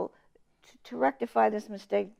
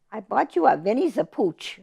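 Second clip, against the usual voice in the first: put-on mother's Yiddish accent; 6 dB louder than usual. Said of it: "'cause that's the accent".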